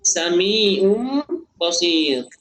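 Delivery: very slow sami'um basir, tanwin as m; iqlab recited. Shown as a demonstration. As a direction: stretch the m into basir. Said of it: "tapi dibaca mim".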